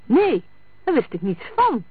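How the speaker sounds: high, loud burst of denial; vehement protest. A narrator's reading. Sammy denying he knew of the murder, protesting vehemently. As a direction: deny it hotly and at once. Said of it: "protesteerde Sammy heftig".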